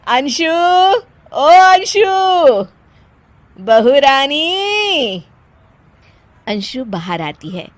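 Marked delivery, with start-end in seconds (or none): 0.1-5.2 loud, drawn-out call to the daughter-in-law. Acted. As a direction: call her from the other room. (बहू को ज़ोर से पुकारना)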